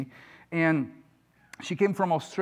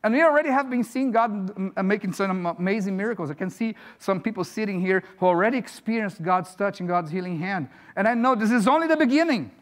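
preaching. Acted. Preaches with force to congregation.

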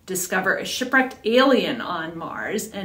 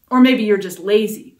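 louder, biting snarl; a mock snarl at the hunter, louder; 7 dB louder than usual. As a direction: spit it out as an insult. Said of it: "I snarled".

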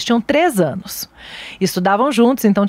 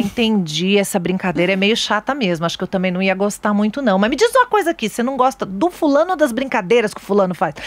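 gentle mom; 3 semitones lower than usual. Retold or imitated. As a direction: talk him down gently. Mãe acolhendo filho bravo. (voz calma e acolhedora de mãe)

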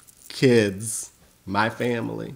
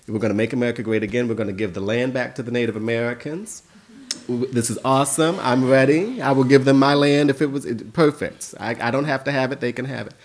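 mock eager optimism. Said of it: "in my mind I'm thinking".

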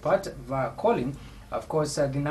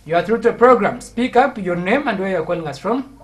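loud, high-pitched prompting; calling out; 5 semitones higher, 9 dB louder than usual. Real, not acted. Host asking a silent caller for name and place, calling out. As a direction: project to a caller who can't hear.

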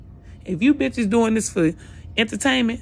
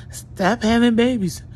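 mocking commenter; 4 semitones higher, slower than usual. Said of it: "talking about some".

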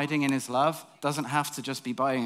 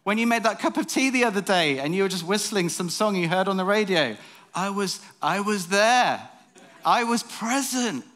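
voice of God; 7 semitones higher, 5 dB louder than usual. Acted. God tells the preacher he was present. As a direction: speak as God, intimate and patient. God speaking to him, acted.

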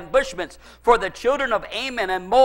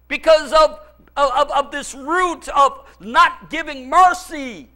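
impassioned preaching; 5 semitones higher, 4 dB louder than usual. Real, not acted. Preacher warning the congregation about bitterness, impassioned preaching. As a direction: build each cause with rising force.

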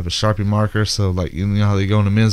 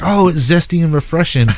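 mock chirpy victim; 7 semitones higher than usual. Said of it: "They're like".

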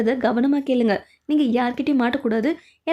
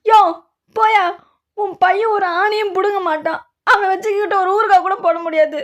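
scornful outburst; 5 semitones higher, 4 dB louder than usual. Acted. Scornful insult in a quarrel.

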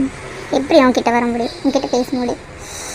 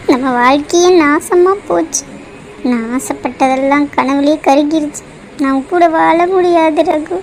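slow, crying despair; slow tearful words to her lover; tearful lament; slower than usual. Acted. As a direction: sob it out slowly, heartbroken. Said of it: "அழுகாத, எல்லாத்தையும் மாத்திரலாம்".

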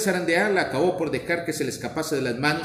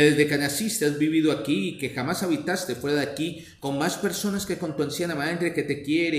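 lamenting. Acted. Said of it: "dijo lamentándose".

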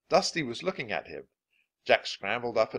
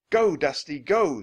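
high, loud desperate urging; shouted; 7 semitones higher, 9 dB louder than usual. A narrator's reading. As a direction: shout the horse into a gallop. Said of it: "he shouted".

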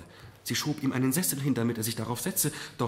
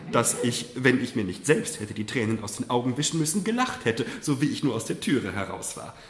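lightly voiced mother, half laughing; a mother telling it with a chuckle in her voice; amused mother; 2 semitones higher, 4 dB louder than usual. Mother recounts laughing and crying.

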